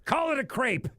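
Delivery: high exaggerated French accent; mock French accent. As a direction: say crepe the snooty French way.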